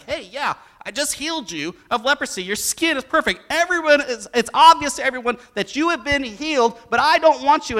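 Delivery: a firm healer warning the man he cured; stern Jesus. Acted. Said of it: "He's like".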